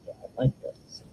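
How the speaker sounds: soft unvoiced whisper of delight; whispered admiration. Real, not acted. Crafter admiring her work, whispering to herself. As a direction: breathe it out to herself, pleased.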